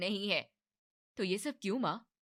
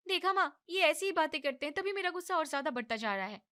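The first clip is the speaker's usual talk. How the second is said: angry complaint; 9 semitones higher, faster than usual. Acted. Angry wife complaining to mother-in-law.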